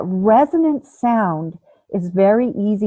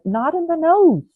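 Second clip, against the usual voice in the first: contrast; 9 semitones higher than usual. Shown as a demonstration. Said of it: "not in the back of the throat".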